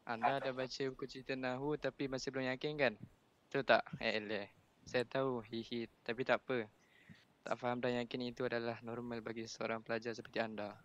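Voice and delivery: slightly hurried read-aloud with some feeling; reading too fast. Real, not acted. Student reading to the class for Ustaz, a little rushed. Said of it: "Dia baca laju sangat".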